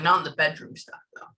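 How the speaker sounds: a low aside in his manner, amused; imitating his joking aside. Medium imitates the man joking to his loved one, low amused aside. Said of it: "Like that".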